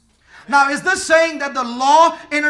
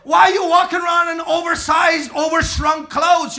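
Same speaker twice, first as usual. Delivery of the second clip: loud teasing shout, stretched out; mock scolding shout; 2 semitones higher, 4 dB louder than usual. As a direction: scold them for their ill-fitting clothes. Mocking ill-fitting clothes.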